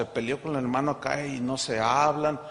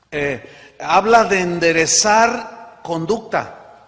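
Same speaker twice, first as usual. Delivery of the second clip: forceful preaching; 4 semitones higher, 7 dB louder than usual. Acted.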